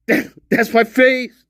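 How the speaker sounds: squeaky slowed-down audio effect; pitch-shifted voice. Shown as a demonstration. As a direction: play it like a voice run through pitch software. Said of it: "after playing with audio files".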